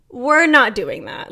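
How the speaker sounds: slow, emphatic refusal; retold firm refusal. Driver refusing the trucker's demand, retold slow firm refusal. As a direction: draw it out to shut the argument down.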